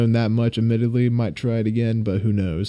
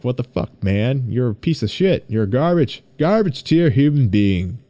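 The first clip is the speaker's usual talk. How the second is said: inner critic voice. Retold or imitated. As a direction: berate yourself like an inner critic. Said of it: "that voice inside my head".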